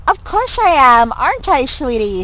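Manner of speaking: high, sweet cooing to a pet; sugary mock baby talk. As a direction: coo at the owl like a baby. Character coos to owl.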